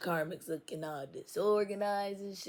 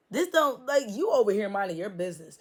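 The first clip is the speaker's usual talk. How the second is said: indignant; 3 semitones higher, 8 dB louder than usual. Real, not acted. Indignant continuation.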